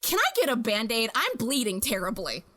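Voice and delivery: understated, polite deadpan; acted-out composure while still in shock; calm request. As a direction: ask matter-of-factly despite the emergency. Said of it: "And I calmly walk into the other room".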